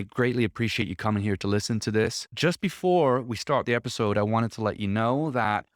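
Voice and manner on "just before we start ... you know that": a brisk ad read, pitched up; a light podcast ad-read voice; upbeat sponsor read. Acted. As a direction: pitch the service like a friendly host ad. Sponsor read for agency service.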